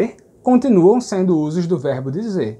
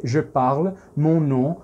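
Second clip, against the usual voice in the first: slow example; slower than usual. Shown as a demonstration. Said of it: "Você não pode dizer".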